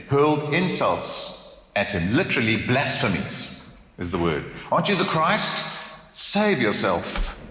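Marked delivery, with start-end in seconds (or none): 4.7-7.4 high scornful taunt, then slow; jeering thief, high then drawn out; mocking jeer. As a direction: hurl it like the criminal beside him. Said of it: "it's mocking, it's sarcasm".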